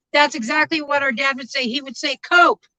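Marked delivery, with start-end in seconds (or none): 2.2-2.7 imitating dad, louder and higher; raised voice. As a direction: call it out like a no-nonsense dad. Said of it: "he would say it with a raised voice".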